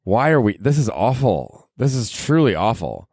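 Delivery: lightly voiced shocked clubgoer; mock horror as the lights come up; imitating a stunned, let-down partier; dismayed partier. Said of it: "It's like".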